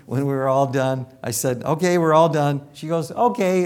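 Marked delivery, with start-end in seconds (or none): 1.6-2.6 calling out. Retold or imitated. Calling over the screaming. 3.1-3.6 chirpy okay. Retold or imitated. Patient's cheerful reply.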